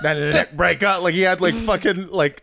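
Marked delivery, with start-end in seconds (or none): 0.0-1.0 mock-dramatic stress on "neck breaker"; imitated over-emphasis. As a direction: overdo "neck breaker" like a bad actor. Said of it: "He emphasized that so much".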